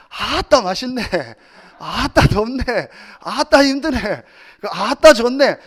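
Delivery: light imitation of a Jeolla pastor's 아따; a hint of Jeolla dialect, amused. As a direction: playfully mimic a Jeolla dialect speaker. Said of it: "계속 사투리를 쓰는 거예요".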